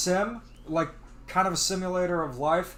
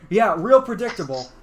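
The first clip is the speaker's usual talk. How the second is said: sarcastic; 5 dB louder than usual. Retold or imitated. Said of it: "Josh will say".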